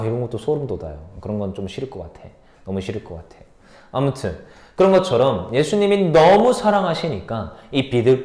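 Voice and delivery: usual speaking voice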